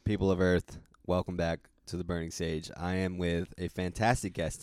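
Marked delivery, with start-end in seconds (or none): 0.0-2.7 ringmaster. Acted. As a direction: roll out the big-top welcome. Announcer welcome to show.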